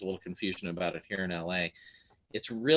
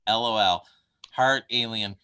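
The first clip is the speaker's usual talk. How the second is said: slow, louder quote of a friend's message; quoting her message; 5 dB louder, slower than usual. Retold or imitated. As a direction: read out her words slowly and emphatically. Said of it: "I sh-, love her saying".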